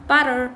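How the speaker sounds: butter with a quick tap for the t; American flap. Shown as a demonstration. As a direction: say butter close to "budder". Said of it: "يعني هيك يقولوها". (لفظ butter بتاء أمريكية مثل الدال)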